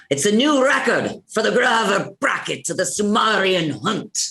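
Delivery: rolling call to a crowd; Irish-accented arena announcement; announcer yell. Acted. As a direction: proclaim the record, "Sumerian" as soo-MAR-ee-an. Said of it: "The rest of these lines, you're yelling".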